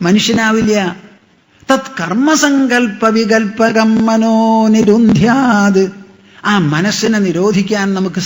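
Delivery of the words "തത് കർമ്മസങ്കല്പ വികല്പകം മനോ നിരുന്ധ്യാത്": Sanskrit verse recitation. Shown as a demonstration.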